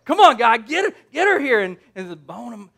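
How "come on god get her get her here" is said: playful over-the-top come-on; smitten Adam. Acted. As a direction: call out hammed-up delight. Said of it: "he's basically saying".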